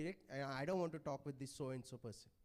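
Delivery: a hint of a stubborn church member; sulky churchgoer.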